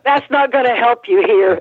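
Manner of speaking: retelling the cop's line to the interviewer, mock stern; mock stern officer. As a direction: play the unimpressed cop, half-joking. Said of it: "the officer said".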